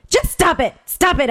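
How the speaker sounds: high, pushed mock shout of stop it. Woman in the van shouting at her girlfriend to stop. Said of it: "I shouted".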